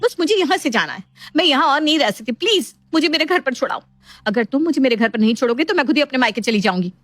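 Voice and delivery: high, urgent demand; insistent upset wife. Acted. Wife demanding to go to her parents' home, insistent.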